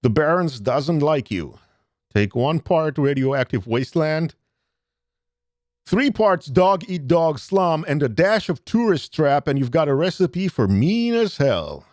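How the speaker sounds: measured narrator read of the game text; story narration. A narrator's reading. Streamer reading the game intro aloud, narrator voice. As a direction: set the scene for the stream like a storyteller.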